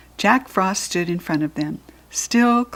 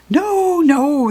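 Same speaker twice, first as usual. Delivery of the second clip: goblin voice; 9 semitones higher, 7 dB louder than usual. Acted. Third goblin objecting.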